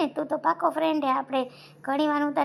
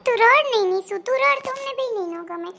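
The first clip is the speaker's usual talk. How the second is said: much higher, louder pleading voice; higher, louder coaxing plea; comforting sister; 7 semitones higher, 5 dB louder than usual. Acted. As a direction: soothe her to stop crying, pitched up. Comforting crying Nishu.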